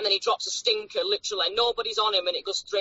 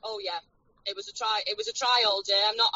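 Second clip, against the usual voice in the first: through a phone speaker; tinny phone line sound; on speakerphone. Real, not acted. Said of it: "So you're on speakerphone now".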